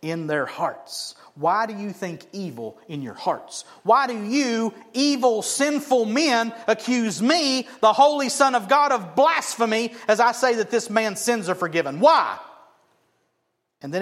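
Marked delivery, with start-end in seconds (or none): 1.3-12.4 confronting. Retold or imitated. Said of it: "he confronts them".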